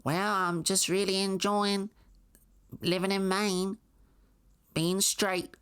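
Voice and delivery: high, sugary small-town mother voice; mock Maine mom. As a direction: gush like a proud mom in Maine. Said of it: "So it'd be like".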